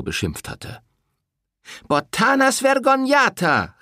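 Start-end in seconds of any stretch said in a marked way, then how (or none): 1.9-3.7 put-on high, loud old woman's cry; a shrill old crone yelling out; shouted insult. A narrator's reading. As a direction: hurl it across the street. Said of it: "rief eine andere".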